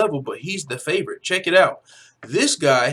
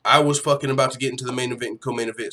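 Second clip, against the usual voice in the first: fast talk; 3 semitones lower, faster than usual. Real, not acted. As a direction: race through it like an auctioneer. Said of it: "I need to start talking like an auctioneer".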